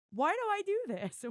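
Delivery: loud, high, exasperated yelp; comic high-pitched despair at herself; exasperated cry. Real, not acted. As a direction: throw the question up in despair.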